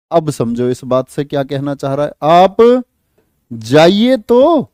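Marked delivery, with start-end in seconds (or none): 2.2-4.6 daring tone. Shown as a demonstration. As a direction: dare them to leave. Dares listener to leave.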